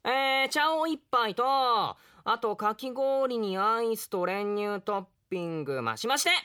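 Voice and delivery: lazy, easygoing swordsman, lightly voiced; young samurai. Young samurai ordering shaved ice at a tea house, lazy and easygoing. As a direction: order like a relaxed hungry ronin.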